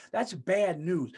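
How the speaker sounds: slow and deliberate, "That's" leaned on; slow emphasis. Real, not acted. Ranting to viewers about what real bad news is, slow and weighty.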